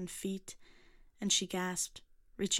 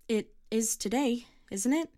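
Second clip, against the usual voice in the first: higher, louder, slow insistence; insistent repeat; 5 semitones higher, 5 dB louder than usual. A narrator's reading. Girl repeating her question to the son, louder. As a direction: press him for an answer. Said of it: "she repeated".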